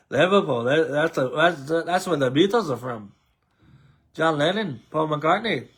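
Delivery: mock Liverpool accent; light, hammed-up Liverpudlian lilt. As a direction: put on a playful Scouse accent for the Beatles. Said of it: "That's my Liverpool accent".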